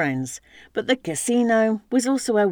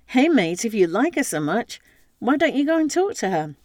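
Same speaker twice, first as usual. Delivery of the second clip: playful, teasing call across the bar; jokingly; 4 semitones higher than usual. Acted. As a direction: tease him lightly, a bit tipsy. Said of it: "so said jokingly".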